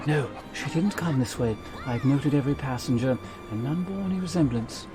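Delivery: a hint of a polite, smug host; courtly gentleman voice.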